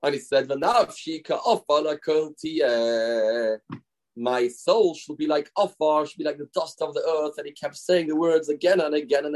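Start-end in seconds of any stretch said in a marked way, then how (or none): 0.5-7.3 slow, drawn-out earnest praying; passionate, serious prayer. Acted. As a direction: imitate a man praying with solemn humility. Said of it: "with such passion and seriousness".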